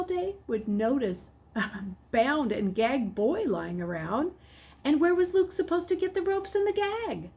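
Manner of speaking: put-on boy panicking over a plan; frantic thinking. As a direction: scramble through a desperate plan. Luke's frantic inner thoughts.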